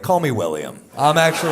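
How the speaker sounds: loud hammed-up Cosby bit; mock Cosby. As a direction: shout a phony rebrand. Mock Bill Cosby rebrand.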